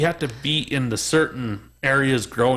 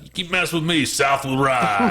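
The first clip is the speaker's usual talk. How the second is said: imitating Louisiana coworker; 5 semitones higher than usual. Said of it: "he kept telling us that".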